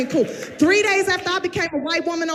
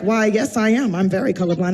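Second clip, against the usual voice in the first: lower, prim and earnest; prim census man; 6 semitones lower than usual. Retold or imitated. Census man to comedian, low and earnest. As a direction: answer politely, a little proud. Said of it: "he was like".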